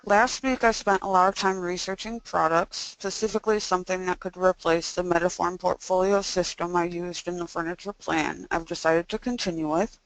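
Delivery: stiff jaw, mouth barely opening; speaking after jaw surgery. Real, not acted. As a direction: talk with stuff still in the mouth. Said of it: "so that's why I sound this way".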